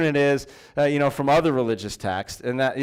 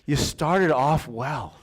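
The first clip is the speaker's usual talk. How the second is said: compassionate question. Retold or imitated. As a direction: ask it with kindness, not blame. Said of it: "more of a compassionate question".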